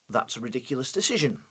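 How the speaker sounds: fast, low, whispered flat statement. Shown as a demonstration. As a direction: mutter it without feeling. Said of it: "it would sound like this".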